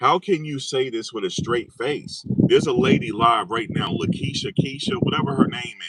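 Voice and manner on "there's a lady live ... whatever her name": mocking voice. Mocking a live streamer.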